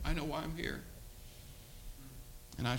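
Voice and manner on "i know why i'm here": higher, then softer, imitating tears; retold tearful confession. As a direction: quietly act out a tearful young man. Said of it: "tears rolled down his face".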